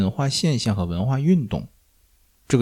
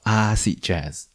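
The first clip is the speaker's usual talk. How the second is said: slow "acid" with a drawn-out AA-cid; stress on the first syllable; much slower than usual. Shown as a demonstration. Returning to topic with pointed correctness, "acid" front-stressed. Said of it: "这个词的重音应该在前面".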